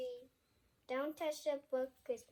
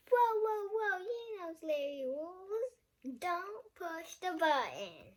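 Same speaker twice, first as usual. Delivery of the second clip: loud alarmed whoa, then urgent plea; character shouting to stop the reader; alarmed warning; 3 semitones higher, 5 dB louder than usual. Acted. Larry the monster shouting at the reader not to push.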